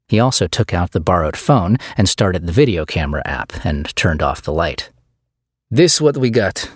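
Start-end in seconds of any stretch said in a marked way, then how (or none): 5.7-6.7 put-on maintenance guy with a heavy Eastern European accent; thick Eastern European accent. Maintenance guy offering the bag, thick Eastern European accent. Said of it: "in a thick Eastern European accent".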